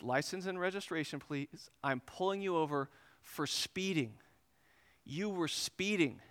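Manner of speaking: soft, measured, unimpressed officer; deliberate officer. Retold or imitated. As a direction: repeat it quietly, slowing on the accusation. Officer repeats himself deliberately.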